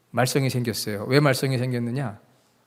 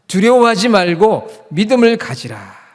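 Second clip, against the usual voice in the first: high, loud, slow exhortation; emphatic proclamation; 5 semitones higher, 7 dB louder than usual. Acted. Preacher proclaims to congregation not to fear, loud slow exhortation. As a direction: proclaim it boldly, stretching each phrase.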